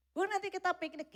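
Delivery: put-on a kid tugging at mum's sleeve; child asking mother.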